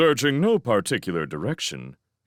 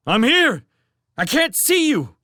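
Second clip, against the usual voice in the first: calling out; 14 semitones higher, 5 dB louder than usual. Acted. Shouting back through debris.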